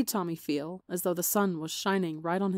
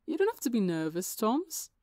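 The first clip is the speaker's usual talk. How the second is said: reassuring; 5 semitones higher than usual. Acted. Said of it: "Wilbur reassured".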